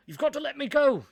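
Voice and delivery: high, loud frantic plea; desperate shouting. A narrator's reading. Suspect yelling at police to free him, frantic shout. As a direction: shout to be released, panicked. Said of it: "the suspect kept shouting".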